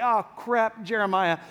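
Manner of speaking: deflated, unwelcoming groan of recognition; mock dread. Crowd seeing the prophet coming, mock dread. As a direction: act let down at who just turned up.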